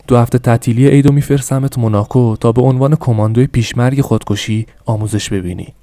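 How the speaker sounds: loud stern decree, pushing each word out; angry father. Acted. Angry father sentencing his son to camp, loud. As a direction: lay down a harsh punishment.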